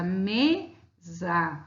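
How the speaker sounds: "mesa" split in two, leaning on ME; teacher's syllable-by-syllable "mesa", stressed on ME; stress on penultimate syllable. Shown as a demonstration. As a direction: hold the ME of "mesa", then drop a separate sa. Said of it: "a mesma coisa".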